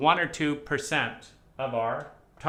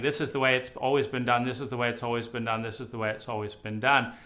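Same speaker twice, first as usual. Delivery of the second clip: rapid droning repetition, faster; rigid brain voice; much faster than usual. Retold or imitated. The controlling brain repeating its rule, rapid and droning. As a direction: rattle off the mantra mechanically, fast. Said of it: "from saying".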